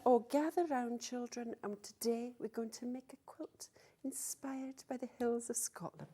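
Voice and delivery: soft storytelling granny voice; elder telling story. Retold or imitated. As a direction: gather the children round, hushed. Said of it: "sitting down with Missus Doubtfire".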